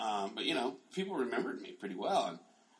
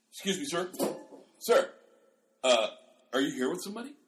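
lightly acted gatekeeper, higher-pitched polite query; a hint of officious doorman stopping a stranger; mock door staff challenge; 6 semitones higher, 4 dB louder, faster than usual. Acting suspicious door staff at reunion.

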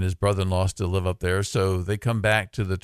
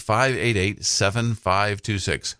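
slow phone number read; slower than usual. Shown as a demonstration. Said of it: "Once again, the number is".

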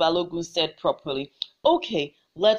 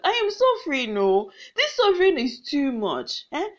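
crying out to ancestors; 3 semitones higher than usual. Acted. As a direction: beg the ancestors in anguish. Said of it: "she cried out to her ancestors".

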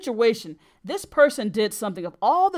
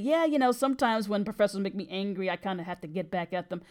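retold offhand confession, trailing softer; imitating a shrugged-off admission; casual admission; 4 dB quieter than usual. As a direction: toss it off casually, dropping away at the end. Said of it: "he said it so casually".

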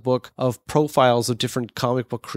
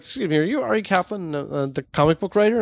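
higher-pitched mock voice for an old British man; old British dude, accent abandoned; 7 semitones higher than usual. Old British man approaching a comic book writer, in a half-hearted mock voice. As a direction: imitate him without committing to the accent. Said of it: "not even gonna bother to do the accent".

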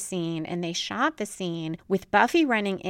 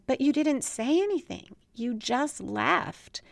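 more intense; 5 semitones higher than usual. Retold or imitated. Buffy confronts Angel about leaving, with mild intensity. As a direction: press the point, slowing on the last words. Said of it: "then she meets with more intensity".

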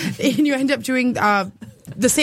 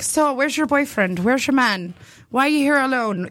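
half-hearted imitation of an Irishman; attempted Irish accent. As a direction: try a light, shaky-footed Irish accent. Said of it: "I can't do an Irish accent".

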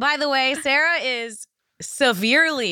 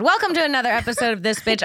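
fast host welcome; faster than usual. Shown as a demonstration. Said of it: "redo of welcome".

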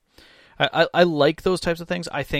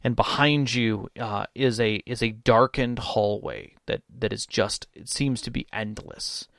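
usual speaking voice

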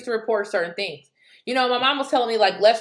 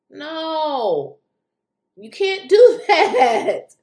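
laughing disbelief; 2 semitones higher, 5 dB louder, much slower than usual. Real, not acted. Laughing at the logic.

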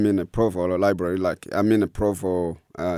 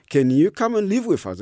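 kind offer; 10 semitones higher, 3 dB louder than usual. Retold or imitated. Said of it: "And they're like".

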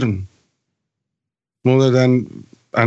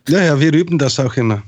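laughing; faster than usual. Real, not acted. Joking about Swiss speech.

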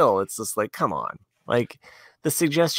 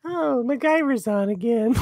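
put-on old lady's distraction; 12 semitones higher, slower than usual. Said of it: "she's like".

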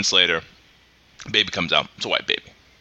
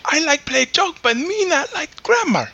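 higher, slow put-on Asian accent in broken English; mock Asian accent; 13 semitones higher than usual. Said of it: "that was Asian".

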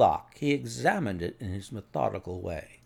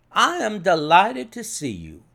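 hearty, higher and louder; hearty welcome; 7 semitones higher, 5 dB louder than usual. A narrator's reading. Inspector welcoming Holmes to the scene, hearty. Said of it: "said he, heartily".

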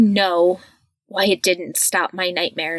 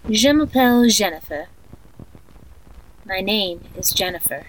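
sleep story narrator. Acted. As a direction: lull a child to sleep, eerily calm. Creepy tape of guided sleep meditation.

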